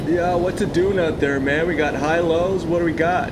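laid-back surfer bro; stoned beach bro voice; surfer dude. Acted. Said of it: "the surfer voices".

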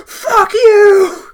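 high, loud mock scream; imitated shout. Imitating the game hero's cutscene curse, high shout. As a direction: belt it out as an over-the-top defiant yell. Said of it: "Like, he just shouts it".

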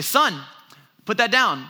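a touch of stern fatherly command; dad voice. Retold or imitated. Dad to two-year-old holding scissors, lightly voiced dad voice. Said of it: "It's called a dad voice".

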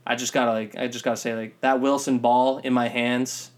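lightly put-on southern accent, dragging the last words; mock southern accent. Podcast host quoting a player after the first game, mock southern accent. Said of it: "sound like a southern, like an Arkansas".

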